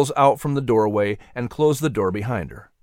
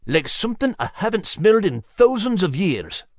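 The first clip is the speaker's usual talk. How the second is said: higher gruff dog voice; lightly voiced dog; 8 semitones higher than usual. A narrator's reading. Dog telling the mouse of an ancient smell, lightly voiced. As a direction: say it ominously like an old dog.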